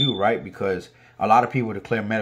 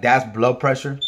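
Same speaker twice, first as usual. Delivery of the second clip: incredulous echoed question; retold disbelief; 2 semitones higher, 4 dB louder than usual. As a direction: throw the diagnosis back in doubt. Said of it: "I'm like".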